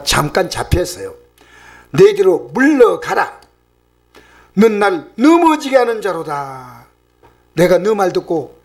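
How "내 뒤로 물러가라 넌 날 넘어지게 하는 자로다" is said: slow, commanding scriptural reprimand; deliberate acted-out banishing; direct rebuke. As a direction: stretch the words out with authority. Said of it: "직격탄을 날립니다".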